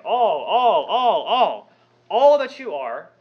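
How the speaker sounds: each all punched and repeated; shouting all. Shown as a demonstration. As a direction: hammer every all. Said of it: "shouting it over and over again".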